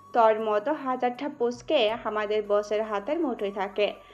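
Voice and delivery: ordinary delivery, nothing marked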